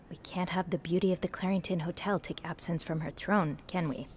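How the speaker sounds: whispered mock grandeur; mock-regal tease. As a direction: tease her like a queen. Teasing coworker as hotel queen.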